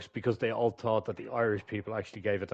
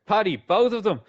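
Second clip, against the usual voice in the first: raised, higher call to someone below; shouting downstairs; 7 semitones higher, 5 dB louder than usual. A narrator's reading. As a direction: call it down the stairs. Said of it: "Mick shouts downstairs".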